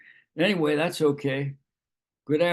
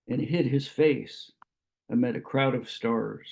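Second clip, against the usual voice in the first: measured poetry recital with pauses between phrases; lightly lilting recitation, lines falling at the close; poem reading. Acted. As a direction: read it as verse, phrase by phrase. Reads a Yeats poem aloud.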